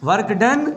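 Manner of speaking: "work done" punched with a lift; emphatic phrase. Shown as a demonstration. Teacher again stressing the phrase to students. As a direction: hit "work done" hard. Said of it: "फिर से जोर दे के बोल रहा हूँ".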